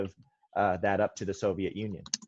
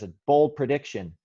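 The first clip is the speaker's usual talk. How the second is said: lightly punched "bold", a bit higher and louder; Dude Perfect catchphrase; 4 semitones higher, 4 dB louder than usual. Retold or imitated. Teacher quoting Dude Perfect to the class, mild hyped catchphrase. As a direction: borrow the Dude Perfect hype on "bold prediction". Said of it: "as Dude Perfect says".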